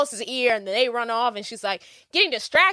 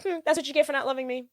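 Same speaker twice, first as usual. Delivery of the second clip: smug; 6 semitones higher, 4 dB quieter, faster than usual. Retold or imitated. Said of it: "She's like".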